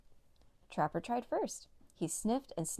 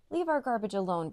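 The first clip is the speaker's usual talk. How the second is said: loud barked command; firm dog's bark at a bandit; 3 semitones higher, 5 dB louder than usual. Acted. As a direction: bark it at the thief. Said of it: "barked Trapper".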